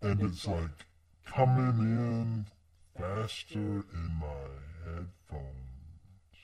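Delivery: stoner. Real, not acted. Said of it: "I think you're on drugs".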